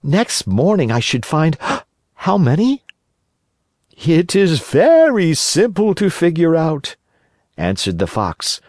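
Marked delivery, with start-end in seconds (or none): 0.0-2.8 put-on high boyish puppet voice, much higher; Pinocchio voice. Pinocchio wonders. 4.0-7.0 sly fox warning. Acted. Fox answers.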